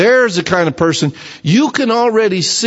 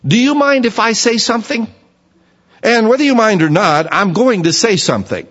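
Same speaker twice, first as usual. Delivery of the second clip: higher, pushy modern voice of a blunt friend; modern paraphrase; 5 semitones higher than usual. Shown as a demonstration. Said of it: "Now say that in our language".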